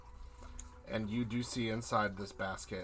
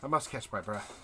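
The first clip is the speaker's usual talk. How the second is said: lightly voiced delivery lady; 3 semitones higher than usual. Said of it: "this lady just says".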